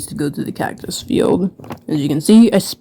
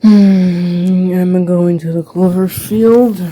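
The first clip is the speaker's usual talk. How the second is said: weary bee voice; 2 semitones higher, 4 dB louder, much slower than usual. Acted. Bee character speaks, with sigh.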